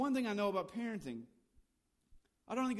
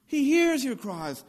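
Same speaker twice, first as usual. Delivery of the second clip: emphatic declaration; 6 semitones higher, 10 dB louder, slower than usual. Real, not acted. Preacher stresses God hears.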